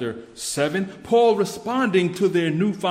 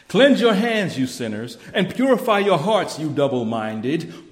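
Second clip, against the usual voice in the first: stern reading; 6 dB louder than usual. Acted. Reading a stern scripture command.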